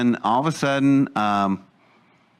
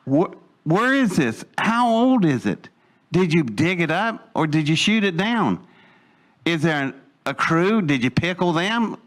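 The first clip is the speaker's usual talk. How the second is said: higher-pitched, challenging questions; indignant questioning; 4 semitones higher than usual. Retold or imitated. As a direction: re-enact confronting them with demanding questions. Retold confrontation, firing questions at them.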